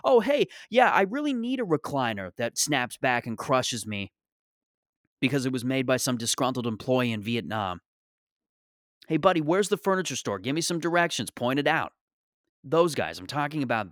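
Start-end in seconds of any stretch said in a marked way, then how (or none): 0.0-11.9 mock driver. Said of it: "see them and go".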